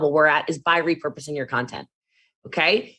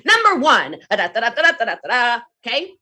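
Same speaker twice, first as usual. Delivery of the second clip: big, high, loud hype opener; high energy intro; 6 semitones higher, 5 dB louder than usual. Shown as a demonstration. Demoing her live intro with big hype. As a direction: launch the live like a hyped host. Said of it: "let's just do my intro".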